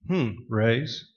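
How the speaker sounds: a pondering "hmm", then RAISE left uncertain; hesitant inflection. Shown as a demonstration. Poker player seeming to think before betting, hesitant. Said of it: "interpret the player's inflection".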